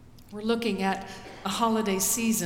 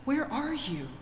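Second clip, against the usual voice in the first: desperate prayer; 5 semitones higher, slower than usual. Acted. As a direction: beg God to come down, rising in need. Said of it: "where we have said".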